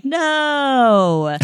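high, drawn-out wail of dismay; embarrassed kid's protest. Retold or imitated. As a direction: imitate a mortified child pleading, pitch sliding down. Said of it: "and I'd be like".

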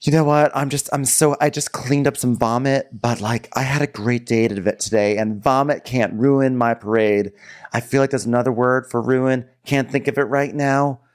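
high, chirpy imitated happiness; lightly voiced overjoyed guy; mock bubbly. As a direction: bubble over with joy. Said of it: "Mikkel's like".

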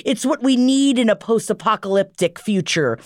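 high, gushing imitation of friends; mock encouraging friends. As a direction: gush it up like everyone flattering her. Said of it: "Everyone says".

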